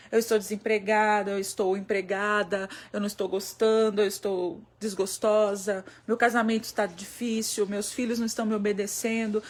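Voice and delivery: low, measured, pleading prayer. Acted. Weary mother asking God for wisdom, earnest prayer. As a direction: pray it in steady, parallel phrases. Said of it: "eu preciso respirar e dizer".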